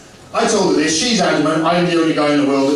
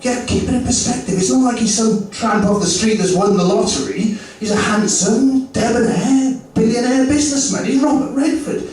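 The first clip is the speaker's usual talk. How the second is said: higher eager self-defence; mock pleading; 8 semitones higher than usual. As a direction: sell it, pitched up and keen. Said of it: "I said".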